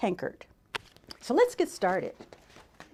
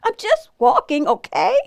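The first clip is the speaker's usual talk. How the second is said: loud, raised, testy retort; exasperated shout; 6 semitones higher, 8 dB louder than usual. A narrator's reading. Bird answers all the nosy animals, loud exasperated voice. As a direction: finish the outburst still fed up. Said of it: "shouted Bird".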